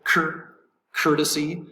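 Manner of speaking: "cur-" alone and high, then "courtesy" stressed at the front; stress on first syllable. Shown as a demonstration. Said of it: "accent is over the first syllable".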